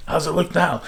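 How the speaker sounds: high-pitched mock call, no real volume; retold yell. Father moved it and asks down again, mild mock yell. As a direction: imitate father calling from above. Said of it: "yell down".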